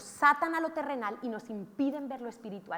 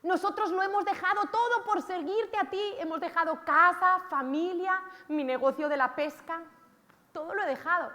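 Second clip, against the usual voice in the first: higher, pleading Peter; 5 semitones higher, 3 dB louder than usual. Retold or imitated. Peter to the Lord, high and pleading. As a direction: Peter protesting all he gave up. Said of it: "Pedro dice".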